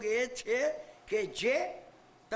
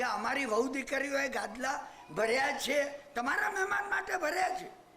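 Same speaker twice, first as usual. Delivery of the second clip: arrogant boast. Retold or imitated. Landowner brags to the Thakor's officer, arrogantly. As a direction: brag to the officer about your riches. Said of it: "એમને રૂઆબથી કીધું".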